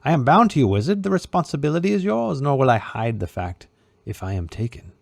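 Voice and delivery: a cornered sorcerer's whine, scolding the wizard; bitter puppet Herlock. A narrator's reading. Herlock voiced in reading.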